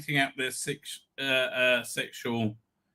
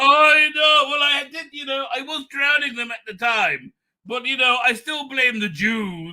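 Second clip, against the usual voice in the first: lightly raised voice parodying the protester; mocking impression; 5 semitones higher, 3 dB louder than usual. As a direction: sneer at him in a high voice. Mocking the pro-Palestine marcher clip.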